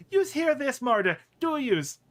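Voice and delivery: high, loud indignant self-talk; Marta. Acted. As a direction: scoff to yourself as an outraged oddball. Marta scornfully asks herself.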